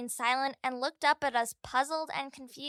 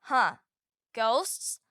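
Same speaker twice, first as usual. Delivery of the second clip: mildly astonished, questioning echo; a touch of puzzlement, rising on the last word; 3 semitones lower than usual. A narrator's reading. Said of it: "looked at me with astonishment and said".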